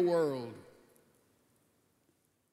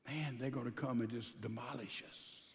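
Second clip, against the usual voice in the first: fearful; 9 semitones lower, 14 dB quieter than usual. Acted. King fears invasion.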